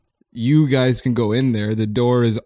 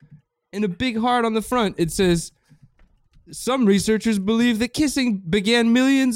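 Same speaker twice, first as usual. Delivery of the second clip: hip cat voice; 9 semitones higher than usual. Acted. Scatman reading the book aloud.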